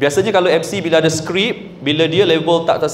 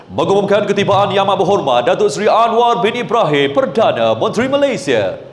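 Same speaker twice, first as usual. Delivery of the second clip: continuous MC announcement, run together without pauses; flowing announcer intonation; 2 semitones higher than usual. Shown as a demonstration. Second style of MC announcing the arrival, flowing. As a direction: announce the whole title in one sweep. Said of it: "Ada orang".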